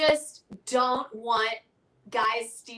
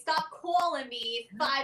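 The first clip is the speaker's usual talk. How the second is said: slow country twang; country accent; 3 dB quieter than usual. Pretend. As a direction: draw it out like a cowboy. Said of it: "We need to work on our country accents".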